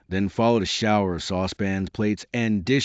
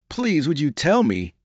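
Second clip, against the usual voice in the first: timid; 6 semitones higher than usual. Acted. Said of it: "a little timidly".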